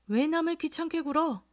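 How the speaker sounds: mimicking again. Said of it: "꾀꼬리 같은 소리를".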